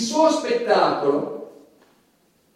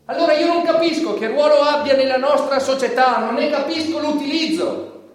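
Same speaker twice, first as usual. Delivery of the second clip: rising, louder disgusted tirade; climbing into a loud outraged outburst; indignant rant; 4 semitones higher, 5 dB louder than usual. Acted. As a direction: build from contempt to outrage. Indignant rant against his shows.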